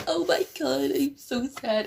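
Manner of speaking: high, squeaky fake sad voice; mocking an anime girl crying a single tear. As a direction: whimper it like a cutesy anime girl.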